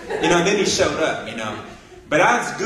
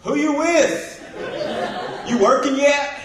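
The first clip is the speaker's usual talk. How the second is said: brash buddy greeting; 8 semitones higher than usual. Retold or imitated. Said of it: "he's like".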